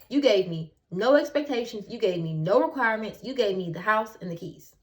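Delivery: imitating her own indignant protest; indignant reply. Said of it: "And I'm like".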